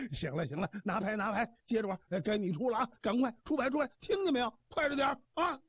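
a hint of a bossy old man hurrying his card partners; impatient old god. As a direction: hustle the players along, lightly voiced. Old god urges players on.

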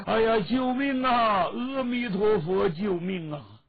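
high, loud wail for rescue, easing at the end; crying for help. Acted. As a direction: cry out like a desperate monk begging to be saved. Monks cry out for help.

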